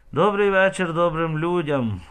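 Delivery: loud, stern greeting flung at the crowd; hailing the crowd loudly and grimly; menacing call. A narrator's reading. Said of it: "вигукнула грізно".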